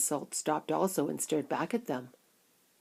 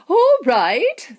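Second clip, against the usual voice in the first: calling out; 11 semitones higher, 12 dB louder than usual. Acted. Wonka calls group to stop.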